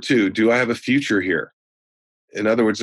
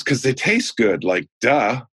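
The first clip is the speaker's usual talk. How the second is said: put-on sassy little girl; 2 semitones higher, slower than usual. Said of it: "She goes".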